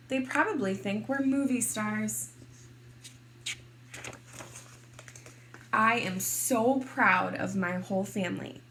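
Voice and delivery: lively, expressive picture-book narration; story reading to children. A narrator's reading. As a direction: read it to kindergartners, playing up key words.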